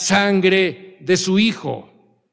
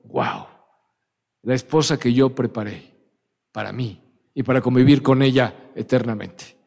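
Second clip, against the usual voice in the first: lightly voiced awed Christ; 5 semitones lower than usual. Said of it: "y diciendo".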